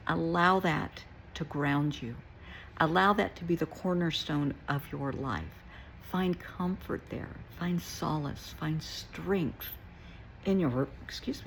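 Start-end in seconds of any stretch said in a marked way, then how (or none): 6.1-11.5 talking through hiccups. Real, not acted. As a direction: voice catching on hiccups. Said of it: "I'm getting the hiccups".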